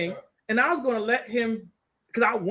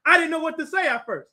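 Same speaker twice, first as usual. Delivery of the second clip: ordinary talk, nothing marked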